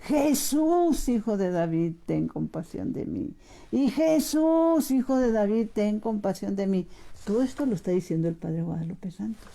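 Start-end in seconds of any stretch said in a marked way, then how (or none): 0.0-3.3 a blind man's mock cry, falling away; retold cry for mercy. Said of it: "le empieza a gritar". 3.7-6.9 slow, stretched, high Jesús, then sinking into a plea; retold drawn-out cry. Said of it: "le empieza a gritar".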